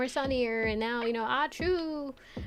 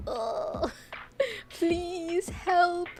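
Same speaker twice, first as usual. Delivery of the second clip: mock misery; 8 semitones higher, much slower than usual. Mocking dry-throat misery.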